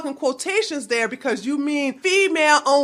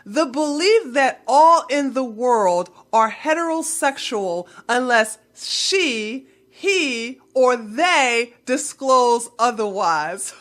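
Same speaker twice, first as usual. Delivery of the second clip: slow, sneering read-aloud; mocking read of the sentence. Shown as a demonstration. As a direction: read it back with contempt. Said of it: "Let me read the last part".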